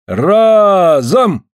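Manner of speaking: high, loud echoed command; eager call. Acted. Afanasy echoes the drop command, eager loud call. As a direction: jump in on the call. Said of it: "подхватил Афанасий".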